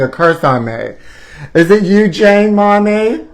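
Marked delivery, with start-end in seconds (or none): 1.5-3.3 put-on little girl calling. Calling to her mother.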